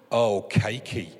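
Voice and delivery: mock bliss. Tasting the cake, mock delight.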